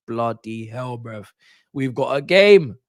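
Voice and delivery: rising into a loud, slow cry; hyped slow shout; excited outburst. Retold or imitated. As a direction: relive the moment the net bulged. Retold own reaction to goal.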